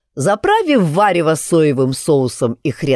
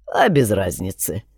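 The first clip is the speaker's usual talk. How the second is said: dismissive; 9 semitones lower, 4 dB quieter than usual. A narrator's reading. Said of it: "махнул рукой Шатун".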